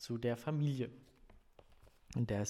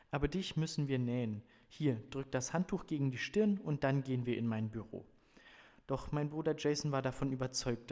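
measured, expressive audiobook reading; story narration; 4 dB louder than usual. A narrator's reading. Reader presents a family novel to listeners, story narration. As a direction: read the novel passage clearly to listeners. Reads novel passage aloud.

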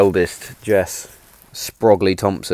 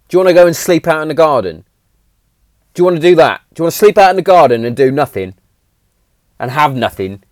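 guilt-trip lecture; 5 semitones higher, 4 dB louder, faster than usual. Retold or imitated. Dad lecturing daughter, guilt trip.

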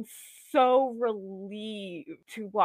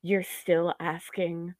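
Jeff Cobb promo impression; 4 semitones lower, 4 dB quieter than usual. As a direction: drag it out like a heel cutting a promo. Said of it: "that was a really good Jeff Cobb promo impression".

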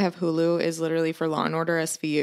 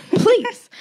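a high laughing "please"; 4 dB louder than usual. Real, not acted. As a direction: laugh it out, fed up. Laughing exasperated plea.

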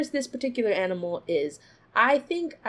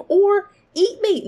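a touch of mock alarm; 9 semitones higher, 8 dB louder, slower than usual. Real, not acted. Laughing at hippo danger.

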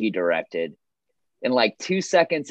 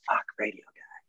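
"Fuck, radio guy." said much softer, deflated; fed-up groan; 8 dB quieter than usual. Shown as a demonstration. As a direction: mutter it with dread at the radio guy, dropping the volume. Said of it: "like, a total nightmare".

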